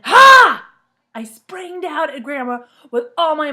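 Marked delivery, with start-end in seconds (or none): 0.0-0.7 big slow loud ha; loud burst. Acted. Narrator building to the scare, loud ha. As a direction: jump out with a loud ha.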